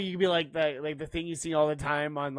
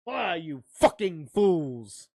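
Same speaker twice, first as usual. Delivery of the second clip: mock film quote; 4 dB louder, slower than usual. Sweary Lord of the Rings quote.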